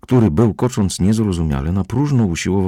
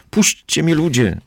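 high, pleading wail; whimpering; 9 semitones higher than usual. A narrator's reading. Little man pleading with the crowd, high and whimpering. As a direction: beg to be let go. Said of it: "pojękiwał".

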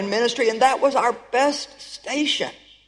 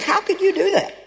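anguished outcry; 8 semitones higher than usual. Retold or imitated. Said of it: "It's like".

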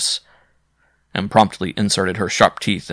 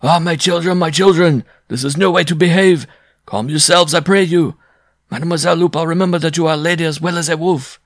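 much higher, loud pleading bellow; bellowing for peace; 9 semitones higher, 6 dB louder than usual. A narrator's reading. Circus owner bellowing at fighting freaks to stop. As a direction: shout them down, begging calm. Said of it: "bellowing for peace".

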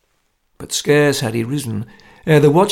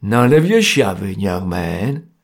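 severe; 4 semitones lower, slower than usual. A narrator's reading. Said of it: "said Jerry severely".

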